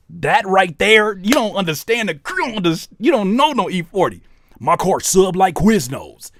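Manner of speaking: high, loud, amazed hype; hyped excitement. Real, not acted. Hyped on E-40 lyric.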